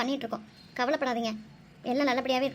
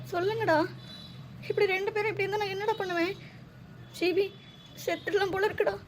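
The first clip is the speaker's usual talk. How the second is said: tearful pleading. Acted. Mother begging her unconscious son to open his eyes, tearful. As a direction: coax him awake through tears.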